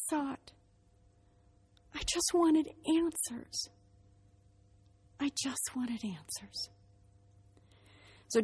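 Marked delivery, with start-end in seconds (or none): 1.9-3.7 slow, high-pitched plea; heartfelt plea. Real, not acted. Speaker pleads her reason to the audience, slow and high. 5.2-6.7 slow, soft near-whisper; hushed plea. Real, not acted. Speaker repeats her plea to the audience, hushed and slow.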